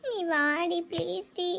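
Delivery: slow, tearful begging; crying plea. Acted. Crying friend begs Kaviya by phone to come, crying plea. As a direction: beg slowly through sobs. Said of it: "ஏன்டி அழுகுற?".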